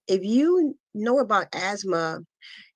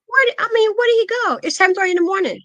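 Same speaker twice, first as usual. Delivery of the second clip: much higher and louder, desperate questions; panicked questioning; 11 semitones higher, 5 dB louder, faster than usual. Retold or imitated. Mother on the phone demanding where her son went, panicked. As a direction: grab at answers as fear rises.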